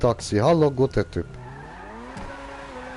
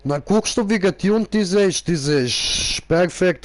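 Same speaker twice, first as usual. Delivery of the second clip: mock broken German. Mock broken German car talk.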